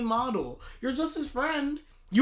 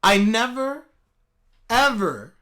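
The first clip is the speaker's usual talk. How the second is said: quoting her; 5 dB louder, slower than usual. Retold or imitated. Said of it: "and I quote".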